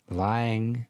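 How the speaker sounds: gently put-on relaxation guide; mock guided imagery. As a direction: paint the scene calmly, phrase by phrase. Guides an imagined scene.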